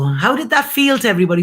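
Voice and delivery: fast, eager question to the audience; keyed up. Real, not acted. Host asking live viewers, fast and excited. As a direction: rush it out, still buzzing. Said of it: "come down a bit".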